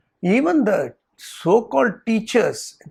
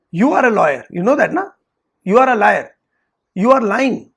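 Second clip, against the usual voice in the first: scolding accusation; 2 semitones higher, 5 dB louder, faster than usual. Retold or imitated. Teacher scolding student in story.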